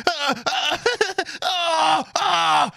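high breathless squeals with laughter; retold giggling screams. Retelling being tickled by a brother, squealing with laughter. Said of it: "I'd be like".

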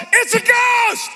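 high frightened cry of a fisherman; scared yell. Retold or imitated. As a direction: yell it like a terrified disciple. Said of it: "And one of them yells".

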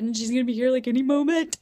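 loud, high, giddy anticipation; so excited. Real, not acted. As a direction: let excitement build into a near squeal. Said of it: "I'm so freaking excited".

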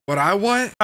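evil cackling laugh; villain laugh. Acted. Villain Billy laughing menacingly.

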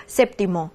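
séptimo重音落在第一个音节sép上，读得清楚有力; 把séptimo的sép重重读出来; 强调重音. Shown as a demonstration. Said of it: "一定注意有重音符号哦". (提醒学生注意重音的示范读法)

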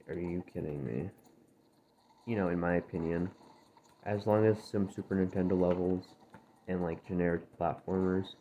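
dry, just-woke-up gravelly voice; rough morning voice, a bit gravelly. Real, not acted. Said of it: "sorry my voice is gravelly".

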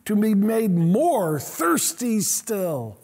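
slow, lifted pleading prayer; earnest prayer. Retold or imitated. Tozer pleading with God, slow and earnest. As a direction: stretch the longing out. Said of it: "He says".

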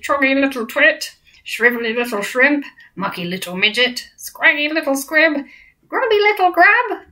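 rising taunts, climbing high by the end; jeering giants. Acted. Giants hurling insults at the BFG, rising to a high jeer. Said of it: "they shouted".

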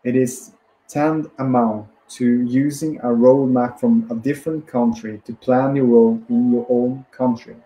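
measured book reading in phrases; deliberate self-help audiobook reading; read-aloud narration. Acted. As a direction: read the passage out steadily, pausing between phrases.

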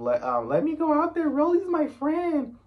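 very high-pitched imitation; mock pleading. Retelling Scotty yelling from the back.

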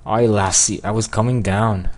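half-hearted Scottish accent; attempted Scottish accent. Shown as a demonstration. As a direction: have a shaky go at a Scottish accent. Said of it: "giving Honeydew a Scottish accent".

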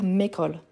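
"m'école" run into one word, mécole; wrong elision. Shown as a demonstration. Teacher showing what cannot be said, "m'école" fused as mécole. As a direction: drop the vowel of "ma" to make "m'école". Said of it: "Je ne peux pas dire".

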